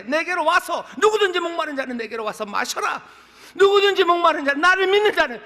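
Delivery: loud, high proclamation, building in force; crying out. Retold or imitated. Jesus calling the thirsty to come and drink, crying out. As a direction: cry it out to the whole crowd. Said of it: "외쳐 가라사대".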